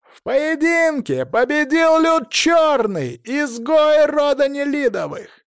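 high, loud, slow announcer cry; herald's proclamation. A narrator's reading. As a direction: proclaim it to the whole arena. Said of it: "на всю арену завопил".

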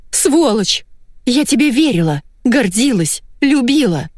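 high, furious outburst of betrayal; betrayed fury. Acted. Wife accusing her lying husband, high furious cry. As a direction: hurl it at him, wounded and enraged.

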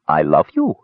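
tender, simple declaration; understated loving admission; simple sincerity. A narrator's reading. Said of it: "she said simply".

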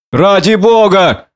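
high, drawn-out protest; urgent plea. A narrator's reading. Prendick tries to stop the drunkard, urgently pleading. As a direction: implore him to stop.

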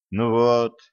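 ordinary delivery, nothing marked

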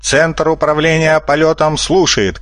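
high official call through a bullhorn; shouting into a megaphone. A narrator's reading. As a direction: announce like mission control. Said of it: "крикнул Лисентос в рупор". (официальный крик в рупор)

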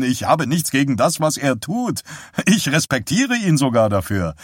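a hint of a smug husband holding forth; husband Walt. Husband airily explaining to his wife, a lightly voiced man.

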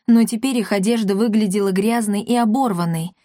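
usual speaking voice

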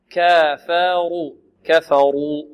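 slow model reading with a thick, rounded R; heavy R. Shown as a demonstration. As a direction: draw out كفروا, R heavy before the long u. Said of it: "والراء فخمت لأنها مضمومة".

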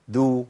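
دو as a rounded "du"; dal with damma. Shown as a demonstration. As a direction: sound دو as d plus "u". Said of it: "المتحركة بضم". (دو بدال مضمومة)

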